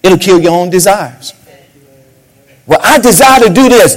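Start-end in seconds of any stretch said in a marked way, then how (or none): 2.7-3.9 mock whiny believer.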